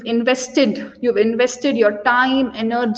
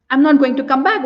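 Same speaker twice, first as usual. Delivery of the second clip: firm refusal; faster than usual. Acted. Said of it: "put in more sarcasm".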